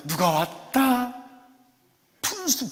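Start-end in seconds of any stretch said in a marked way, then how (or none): 0.1-1.1 playful call. Pretend. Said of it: "막 예배를 드리다가도".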